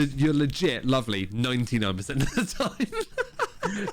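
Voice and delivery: laughing. Real, not acted. Teasing through laughter.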